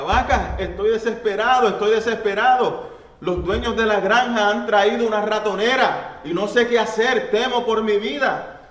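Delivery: very high, loud squeaky mouse voice, half laughing; frantic squeaky mouse. Acted. Mouse crying out to the cow, very high, loud and squeaky. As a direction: squeal it like a panicked little mouse, hammed up.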